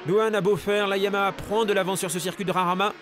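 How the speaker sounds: live race play-by-play; motorsport commentator. Acted. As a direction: call the lead change live.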